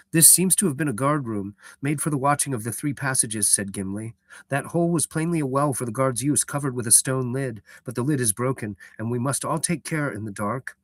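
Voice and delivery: a hint of a delicate elf; effeminate elf voice. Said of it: "I did the elf voice for Gimli".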